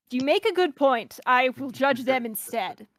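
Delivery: measured mid-Atlantic prosecutor voice; halfway to British, formally delivered; light transatlantic accent for a formal questioner. Acted. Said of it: "a mid-Atlantic, transatlantic kind of thing".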